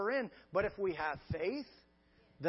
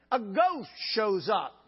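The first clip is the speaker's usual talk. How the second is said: spooky reveal; 7 dB louder, slower than usual. Real, not acted. Dramatic ghost reveal.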